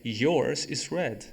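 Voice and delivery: slow, careful example; slow model sentence; slow demo. Shown as a demonstration. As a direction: say it slowly for learners. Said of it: "depois eu falei".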